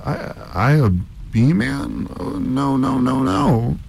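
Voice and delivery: very high, stammering denial; stunned. A narrator's reading. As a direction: protest in a squeaky panic. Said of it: "Harvey was stunned".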